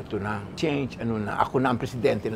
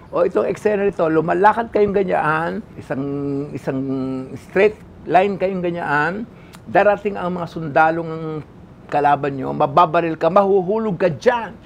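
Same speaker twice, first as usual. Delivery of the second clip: a director loudly laying out the scene; loud director giving orders; 3 semitones higher, 4 dB louder than usual. Retold or imitated. Director explaining the fall to the actor, loud and commanding. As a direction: call the blocking out like a bossy director.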